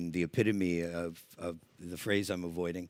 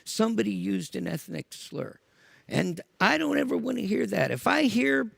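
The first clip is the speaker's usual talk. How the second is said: loud angry speech to the crowd; shouting; 12 semitones higher, 5 dB louder than usual. Retold or imitated. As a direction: yell it at the whole tent.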